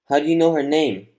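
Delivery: high, loud, astonished question; stunned question. A narrator's reading. Stunned nephew questioning the man who knows his aunt, astonished outburst. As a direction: blurt it out in astonishment.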